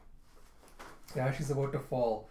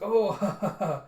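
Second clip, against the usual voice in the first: higher, hammed-up "oh, ha ha ha"; acted laugh; 7 semitones higher, 7 dB louder than usual. Character laughing at the general, acted amused laugh. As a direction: put on an amused little laugh. Mock laughter in retold dialogue.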